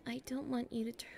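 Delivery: whisper. Acted.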